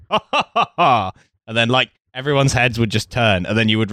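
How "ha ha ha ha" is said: high hammed-up theatrical laugh; loud stage guffaw. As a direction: do the actor's showy laugh. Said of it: "this kind of, like".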